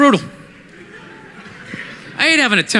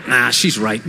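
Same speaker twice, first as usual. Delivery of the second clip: much lower, chastened confession; low, grudging admission; sheepish boyfriend; 12 semitones lower, 3 dB quieter, faster than usual. Acted. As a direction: mumble it like a scolded boyfriend.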